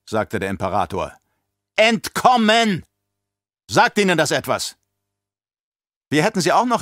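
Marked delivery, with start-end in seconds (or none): 1.7-4.8 outraged exclamation. Acted. Emperor throws the word at the baron, outraged.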